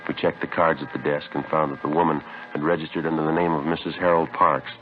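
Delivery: steady, matter-of-fact police report narration; case narration. A narrator's reading. Detective narrating the case to listeners, measured report. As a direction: lay out the facts like a detective's log.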